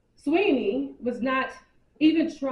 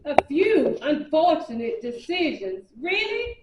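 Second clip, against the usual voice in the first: incredulous echo; 2 semitones higher than usual. Acted. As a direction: throw his own words back at him. Lydia echoes his words in disbelief.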